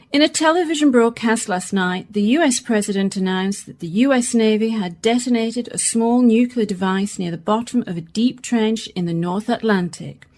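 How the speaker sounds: measured bulletin delivery; radio news read. Acted. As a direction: read the news evenly to listeners. Newsreader reads the bulletin.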